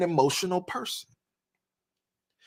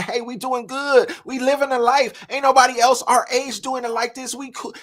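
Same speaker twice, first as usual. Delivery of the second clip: husband voice; 5 semitones higher, 4 dB louder than usual. Retold or imitated. Husband interjecting, voiced higher.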